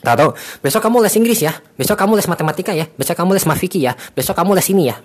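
mimicking a parent signing the kid up for lessons; bossy parent. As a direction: rattle off the schedule like a pushy parent. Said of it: "banyak orang tua yang ngelesin anaknya".

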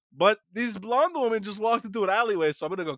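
high cartoon vampire imitation; Michael Morbius. Podcaster retells vampire running from Blade, high hammed-up Morbius. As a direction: put on a high, comic vampire voice. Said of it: "that's how he sounded".

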